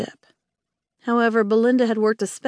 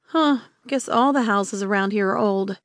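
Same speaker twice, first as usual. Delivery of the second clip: teeth chattering. Acted. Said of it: "her teeth chattering".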